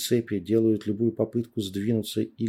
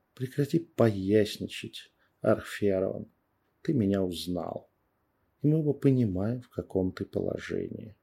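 calm. Acted. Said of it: "Я спокойным голосом напоминаю ему".

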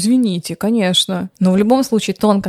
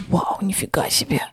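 breathy amazed gasp of wow; awed hushed wow; 9 dB quieter than usual. Retold or imitated. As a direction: whisper it in awe, impressed. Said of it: "он прям такой".

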